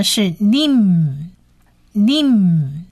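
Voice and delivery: 님 drawn out, closing on a hummed M; final nasal M. Shown as a demonstration. Teacher joining the letters, 님 ending in a nasal M. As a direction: hold the end of 님 with lips shut. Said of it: "它发鼻音的".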